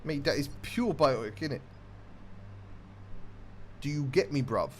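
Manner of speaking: put-on British slang accent; British street accent. Gamer joking about pure biotic in a put-on British accent. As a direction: do a casual British "bruv" accent. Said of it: "that's a different kind of British accent".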